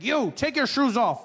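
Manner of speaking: mock security guard ordering shoes off; bossy guard. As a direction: command like an airport guard. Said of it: "They're just like".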